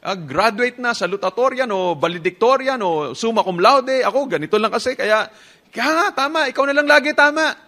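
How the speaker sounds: sarcastic wounded husband; mock self-pity. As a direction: play the put-upon victim, mocking. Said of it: "Parang sinasabi niya".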